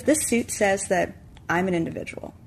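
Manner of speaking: slow, weighty pronouncement with pauses; mock defiant declaration. Friend reading out what the suit says, mock defiant. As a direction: spell it out deliberately, phrase by phrase.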